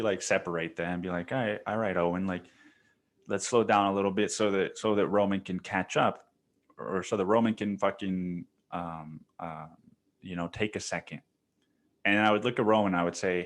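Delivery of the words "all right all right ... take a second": put-on calm the older brother down gently; kindly. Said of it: "but I would just fucking kindly".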